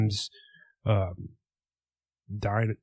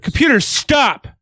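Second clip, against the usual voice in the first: loud command; 13 semitones higher, 5 dB louder, slower than usual. Real, not acted. Commanding a smart speaker.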